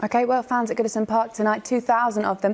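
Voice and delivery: announcer read. Acted. Presenter results round-up over music.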